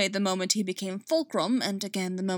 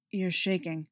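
cautious and gentle. Acted. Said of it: "Cautiously. Still gently".

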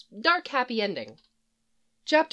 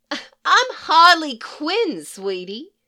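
much higher and louder, slow and showy; Harley interrupting; 8 semitones higher, 7 dB louder, slower than usual. Acted. Harley interrupting the shrink to announce herself, much higher and slow. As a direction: cut him off with a grand, drawn-out self-introduction. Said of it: "she interrupts".

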